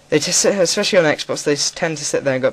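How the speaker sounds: high, loud hammed-up British accent; mock posh British. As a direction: lampoon a stuffy Brit, high and loud. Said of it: "I don't talk like that".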